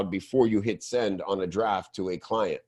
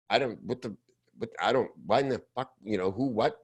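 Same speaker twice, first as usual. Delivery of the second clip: confused viewer; 5 dB quieter, faster than usual. Retold or imitated. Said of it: "you're just confused".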